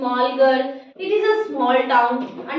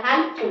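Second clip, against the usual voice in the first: हेल्पफुल split in two, a short pause before फुल; pause inside हेल्पफुल; 4 semitones lower, 4 dB quieter, faster than usual. Shown as a demonstration. Teacher showing students the two syllables, हेल्पफुल with a pause in the middle. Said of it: "बीच में pause हुआ ना".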